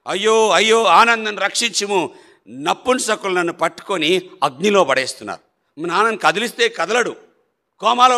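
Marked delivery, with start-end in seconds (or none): 0.1-5.8 high, loud cries of a man in terror, retold; retold terrified cries. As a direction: cry out for rescue like a frightened father in a coma. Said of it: "కోమాలో కేకలేసేవాడు". (భయంతో అరుపులు, నాన్న అనుకరణగా)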